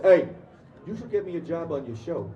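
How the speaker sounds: put-on pushy request in a New York accent; strong New York accent. Subway stranger asking actor for a job, imitated New York accent. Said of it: "people with that strong of an accent".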